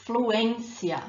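fluência with a strong ÊN; stress on accented ê. Shown as a demonstration. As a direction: say flu-ÊN-cia for learners, not stressing the end. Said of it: "the emphasis is where the accent is".

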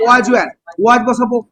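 slow, spaced-out dictation. Shown as a demonstration. Teacher dictates the passive form slowly to students. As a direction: dictate it slowly so they can write. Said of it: "teacher dictating the answer".

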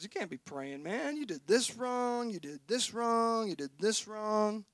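hushed, nagging accuser listing sins; devil accusing. Retold or imitated. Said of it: "the devil comes up and goes".

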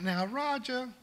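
put-on sweet old Southern lady, slow and drawn out; lightly voiced Southern grandmother, slow; Southern accent. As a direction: imitate a gentle Southern church lady pleading. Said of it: "said through her thick Southern accent".

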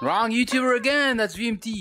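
high, exclaiming disguised voice; put-on kid voice. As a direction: pitch it up to pass as another person. Recognized, denies it in disguised voice.

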